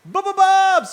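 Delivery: high, loud stuttered holler; stuttered chat greeting. Retold or imitated. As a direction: yell the name with a bouncing stutter. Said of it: "Some people do that".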